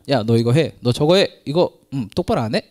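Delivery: a hint of a barking boss; mock order from a petty boss; bossy boss. Mimicking an authority bossing people around, lightly loud. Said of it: "이게 아니에요".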